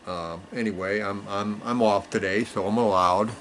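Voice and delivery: talking around a pipe, no teeth; mumbling past a pipe stem; pipe in mouth. Real, not acted. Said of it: "I don't have my teeth in today".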